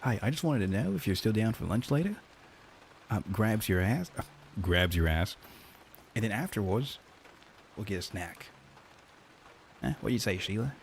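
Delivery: a light, hammed-up Australian accent; lightly mock Australian, teasing the line. Shown as a demonstration. Streamer reading a harassment scenario to chat, light mock Australian accent. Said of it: "read it out in an Australian accent".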